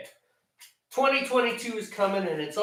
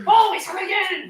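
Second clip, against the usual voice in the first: high, loud put-on Asian accent; mock Asian accent; 11 semitones higher, 5 dB louder than usual. Echoing a buddy's catchphrase, exaggerated mock Asian accent. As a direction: shout it high in a caricatured Asian accent, then drop. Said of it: "I thought I sounded like stereotypical Asian".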